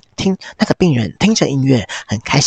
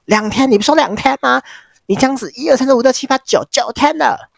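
high, fast, indignant counting; angry rant; 12 semitones higher than usual. Retold or imitated. Hank, furious at his client, counts the days in a high fast rant. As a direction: rattle off the days in outrage. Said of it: "Hank就生气说".

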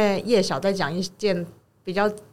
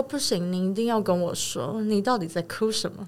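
softer, pushy prying tone; imitating the magician; 5 dB quieter than usual. 模仿魔术师追问朋友为什么哭，轻声却咄咄逼人. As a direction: mimic a nosy stranger who won't let go. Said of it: "哇，你学得好像哦。".

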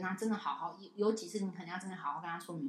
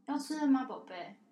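gently higher coaxing; sweet coaxing; 5 semitones higher than usual. Retold or imitated. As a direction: godmother sweetly coaxing the child to eat.

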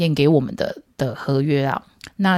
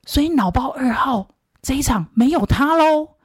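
high, slow astonished realization; mock alarm, drawn out and high; hammed-up astonished bandmate; imitating big shock; 9 semitones higher, slower than usual. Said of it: "脑包一号就大惊".

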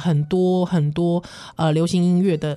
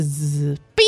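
imitating computer startup beep; 5 semitones lower than usual. Shown as a demonstration. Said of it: "它就开始".

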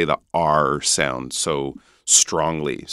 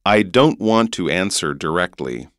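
North American "answer" with final R; North American accent; 3 dB louder than usual. Shown as a demonstration. Teacher quizzing host on accents, North American accent. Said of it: "American accent".

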